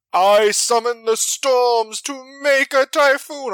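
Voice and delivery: hammed-up Storm summoning weather; grand Storm. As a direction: declaim it like a goddess. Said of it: "naming her attacks".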